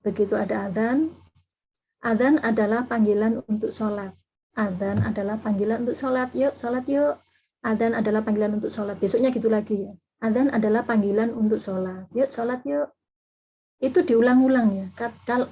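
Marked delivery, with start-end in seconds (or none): 2.1-9.0 "Azan adalah panggilan untuk sholat" repeated on an even, unchanging tune; nada datar. Shown as a demonstration. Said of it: "Nadanya harus datar". 10.2-12.9 "Azan adalah panggilan untuk sholat" in the same even tune each time; nada datar. Shown as a demonstration. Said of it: "waktu mengulang nadanya sama".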